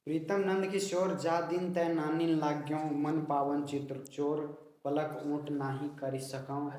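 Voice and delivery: plain prose-like reading in printed order; straight run-on reading. Shown as a demonstration. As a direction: run Pritam Nand Kishore into जा दिन तै without lingering. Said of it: "इसको ऐसे नहीं पढ़ना है". (बिना लय का सीधा पाठ)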